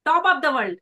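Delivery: proud, positive declaration; upbeat confidence. Shown as a demonstration. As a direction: announce it brightly and confidently. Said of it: "body language".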